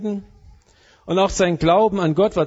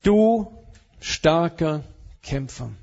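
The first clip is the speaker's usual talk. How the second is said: encouraging; 2 semitones lower, slower than usual. Acted. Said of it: "sagt er".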